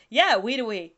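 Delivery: "Wedowee" as WEE-doo-wee; teasing mispronunciation. Retold or imitated. Woman teasing the speaker, "Wedowee" as WEE-doo-wee. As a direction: repeat "Wedowee" wrongly, with doo for DOW. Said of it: "one time I said Wedowee".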